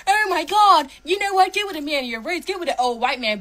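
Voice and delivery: mock her advice with scorn; mocking impression. Ranting woman mocks an influencer's dating advice, sneering. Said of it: "I don't care what the fuck Shira Savin said".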